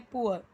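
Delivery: "पुअर" with an oo-er vowel glide; pronunciation example. Shown as a demonstration. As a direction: sound out "पुअर" as poo-er. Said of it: "यहाँ पे pronunciation अलग हो जाता है".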